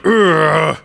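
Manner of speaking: throaty growl with effort; a growl from a tensed neck; straining growl. Shown as a demonstration. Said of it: "getting really into a voice".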